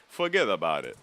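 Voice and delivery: a touch of Italian-American mobster; lightly put-on mobster accent. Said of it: "like, the mobster act".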